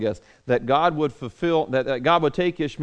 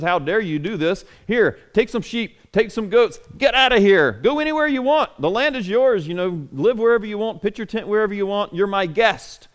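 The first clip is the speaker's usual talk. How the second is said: higher, agitated scolding king; upset king Abimelech dismissing Abraham; 4 semitones higher than usual. Retold or imitated. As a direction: scold him and wave him away.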